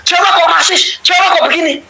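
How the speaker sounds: high mocking accusers' voice; mocking slanderers. Mimicking slanderers, high and sneering. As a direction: mimic the outsiders sneering at the Javanese. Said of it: "orang-orang luar fitnah".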